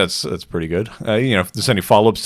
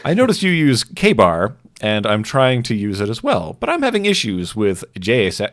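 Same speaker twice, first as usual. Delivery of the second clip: lightly put-on viewer voice, raised at first; doing the voice; 3 semitones higher, 5 dB louder than usual. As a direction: read the question slightly in character. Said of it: "I'll do the voice".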